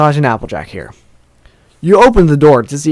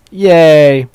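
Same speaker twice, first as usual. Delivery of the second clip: little cheer; 3 semitones higher, 5 dB louder than usual. Pretend. Cheers a relationship point gained.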